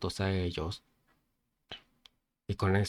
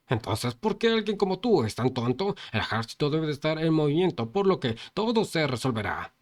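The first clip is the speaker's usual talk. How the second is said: exasperated shout; 5 semitones higher than usual. Acted. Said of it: "gritándole".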